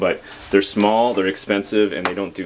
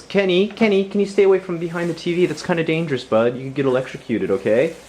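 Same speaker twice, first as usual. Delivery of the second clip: calling out warning; 9 semitones higher than usual. Real, not acted. Warning son away from TV.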